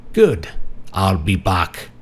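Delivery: lightly done bad German accent; mock German movie-quote accent. A narrator's reading. Marty joking from his hospital bed, bad German accent. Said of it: "said with a bad German accent".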